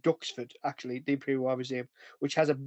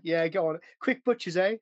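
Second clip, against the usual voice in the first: lightly imitated Cockney soldier; butchered Cockney; 2 semitones higher than usual. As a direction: have a rough go at Cockney banter. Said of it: "butchering American and fucking Cockney".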